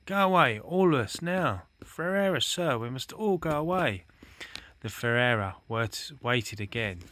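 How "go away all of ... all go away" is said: high-pitched, insistent pleading; instant urgent plea. A narrator's reading. Fiver begging the Chief Rabbit to flee, urgently. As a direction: press the warning urgently, voice raised high. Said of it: "said Fiver instantly".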